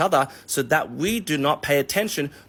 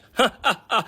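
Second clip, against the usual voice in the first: high, hammed-up villain cackle; evil laugh; 9 semitones higher than usual. Ticket seller counting his stash, evil laugh. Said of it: "this guy's evil laughter".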